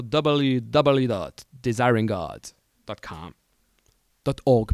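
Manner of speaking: a weak American accent on the web address. Real, not acted. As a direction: read the URL the American way, slowly. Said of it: "mon accent américain est pourri". (un accent américain hésitant et lent)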